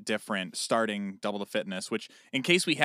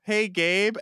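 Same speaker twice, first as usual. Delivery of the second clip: higher, louder call across the house; retold yell; 10 semitones higher, 7 dB louder than usual. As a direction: call out loudly for someone in another room. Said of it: "she'd yell".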